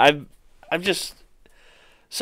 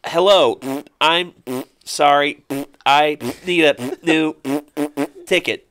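put-on higher voice in weird sputtering accent; SpongeBob; 3 semitones higher, 4 dB louder, slower than usual. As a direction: put a sputter after each halting word. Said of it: "SpongeBob was just like".

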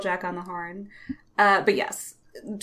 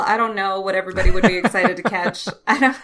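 words breaking into real laughter; laughing; 6 dB louder, faster than usual. Real, not acted. Co-host laughing while guessing Pokémon. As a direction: laugh through the joke.

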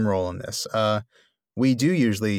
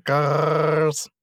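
underwater voice; 5 semitones higher than usual. Pretend. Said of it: "my rejected Ulmo voice".

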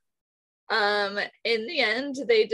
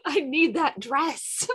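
put-on higher, slow, pleading little-girl want; childish want; 8 semitones higher, slower than usual. Pretending to be a little girl at story time, wanting the dress. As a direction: drag out the wish like a kid begging.

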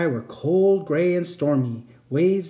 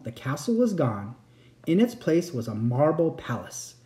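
expressive bedtime-story reading; story narration. A narrator's reading. Narrator telling a bedtime tale, expressive storytelling. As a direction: read it like a fairy tale for a child. Reads a fairy tale aloud.

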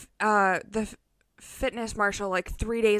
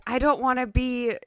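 put-on thick Russian accent, getting louder; 6 dB louder, slower than usual. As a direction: quote it in a heavy Russian accent. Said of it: "the thick Russian accent".

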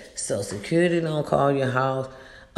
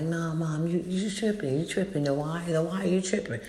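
dismissive retort; 3 semitones higher than usual. Retold or imitated. Kids telling Mom she's tripping, mock dismissive. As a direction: imitate kids brushing Mom off. Children dismiss mother's worry.

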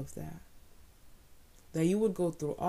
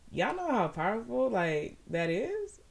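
higher, louder rising exclamation; excited preaching; 5 semitones higher, 3 dB louder than usual. Real, not acted. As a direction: lift the crowd.

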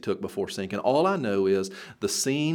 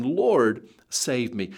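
mild cry for help; much slower than usual. Acted. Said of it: "he cried, saying".

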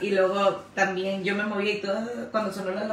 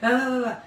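imitated sleep talk; 2 semitones higher than usual. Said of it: "Me decía de que".

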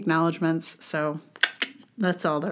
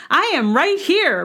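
higher with a laugh, I am right here; laughing, higher boast; 9 semitones higher, 4 dB louder than usual. Acted. Second take, laughing higher.

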